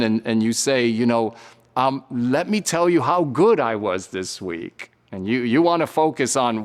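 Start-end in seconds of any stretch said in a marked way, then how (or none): 2.1-4.9 smug boasting. Retold or imitated. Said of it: "like the Pharisee".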